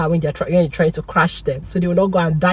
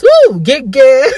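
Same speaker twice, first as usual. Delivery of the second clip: high excited whoop and laugh; gleeful whoop; 7 dB louder than usual. Real, not acted. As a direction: whoop with delight then laugh. Celebrating after fixing mistake.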